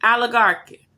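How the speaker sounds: loud mock greeting, Oligarchy sung out high; mimicking his greeting. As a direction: throw Oligarchy at her like a proud title. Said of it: "Every morning he greet me".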